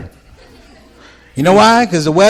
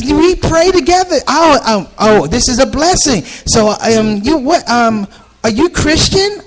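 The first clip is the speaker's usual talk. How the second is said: much higher eager lady voice; excited lady; 7 semitones higher than usual. Retold or imitated. Lady hoping he's Christian, high eager voice. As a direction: bubble over with hope.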